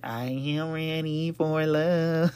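tiny, high-pitched little voice. Speaking to his audience, in a little high-pitched voice. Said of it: "with the little high-pitched voice".

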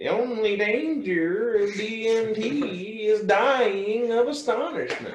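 very high, very slow, every word drawn out, deliberate. Quoting a line to friends: Terence McKenna impression. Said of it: "really good impression".

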